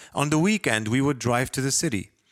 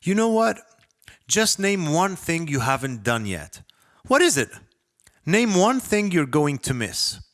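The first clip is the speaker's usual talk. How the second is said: much higher and louder, jabbing questions; furious self-interrogation; 7 semitones higher, 3 dB louder than usual. Acted. Narrator shouting at himself in his head, furious high demanding questions. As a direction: corner yourself with shouted questions. Self-berating inner monologue peaks.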